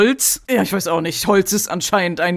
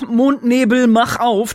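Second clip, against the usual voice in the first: mocking magical girl; 3 semitones higher, 4 dB louder, slower than usual. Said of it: "das klingt doch bescheuert".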